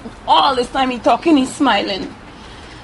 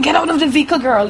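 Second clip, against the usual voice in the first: pitched up and louder, bossy command; retold harsh order; 5 semitones higher, 4 dB louder, faster than usual. Retold attacker demanding she leave the vehicle, raised voice. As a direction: replay his demand with force.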